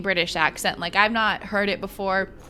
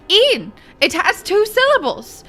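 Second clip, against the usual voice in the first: much higher and louder mock insistence; hammed-up indignant correction; 10 semitones higher, 7 dB louder than usual. Two bandmates insisting on the name, hammed-up loud. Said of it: "they both went".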